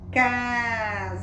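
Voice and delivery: CASEIRO slowly as CA, ZEI, RO; syllable by syllable. Shown as a demonstration. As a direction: draw out each syllable of CASEIRO. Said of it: "vamos observar quantas sílabas ela tem".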